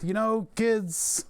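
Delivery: a hint of a rocking-chair grandpa; old man voice. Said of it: "me on the porch rocking back and forth".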